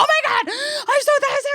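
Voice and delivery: very high squealed sobbing; imitated crying. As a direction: wail with overwhelmed relief, hammed-up. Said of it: "clearly crying".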